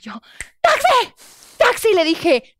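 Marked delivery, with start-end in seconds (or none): 0.6-1.9 loud, high call for a taxi. Retold or imitated. Woman hailing a taxi at night, calling out loudly. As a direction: shout to stop a cab.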